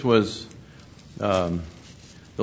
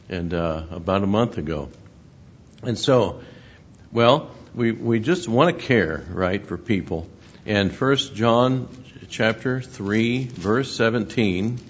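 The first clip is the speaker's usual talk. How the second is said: ordinary delivery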